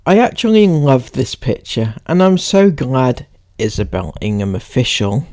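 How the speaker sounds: read-aloud. Acted. Reads a post aloud.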